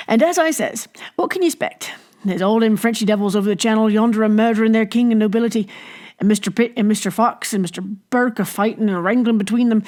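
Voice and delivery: a hint of a pub politician holding forth; ranting innkeeper. Narrator voices Jellyband ranting.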